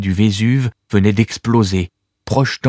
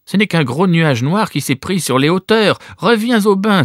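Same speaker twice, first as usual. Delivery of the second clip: reassuring; 10 semitones higher than usual. Acted. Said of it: "tenta de la rassurer Corvus".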